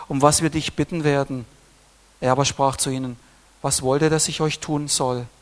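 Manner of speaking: lightly lifted Bible reading; scripture reading. Acted. Preacher reads the disciples' request, in a steady scripture voice. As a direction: read the verses out to the church.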